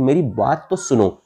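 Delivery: "बात तो" stretched, "सुनो" falling; slow insistent मेरी बात तो सुनो; exclamatory intonation. Shown as a demonstration. Teacher contrasting two meanings of सुनो, exclamatory tune. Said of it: "इस प्रकार से बोलोगे".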